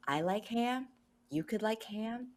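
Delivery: meditative friendly transmitting. Acted. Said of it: "transmit because she does a lot of meditation".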